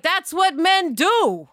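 slow, mocking voice of the casual seventies bystander; dismissive shrug. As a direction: brush it off like it's nothing. Men beating wives, 1970s.

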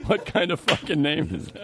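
laughing imitation. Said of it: "He's asking himself".

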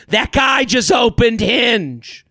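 imitating a drunk woman's loud whisper. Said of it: "She whispers drunkenly, so loudly".

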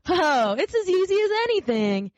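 high, breezy wild rabbit; cocky wild rabbit brag; boastful wild rabbit. Acted.

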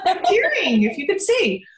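real tears breaking through the laughter; tearing up. Real, not acted. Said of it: "I'm getting emotional".

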